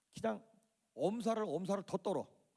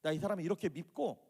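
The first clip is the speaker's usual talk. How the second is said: acted desperate plea, climbing higher; building from a complaint into a raised outcry; crying out to God; 3 semitones higher than usual. Shown as a demonstration. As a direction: plead with mounting urgency. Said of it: "그렇게 외치라고 하는 것이죠".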